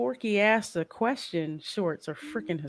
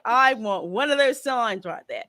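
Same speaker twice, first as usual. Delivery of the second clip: put-on Australian accent; 2 semitones higher than usual. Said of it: "I know my Australian accent sucks".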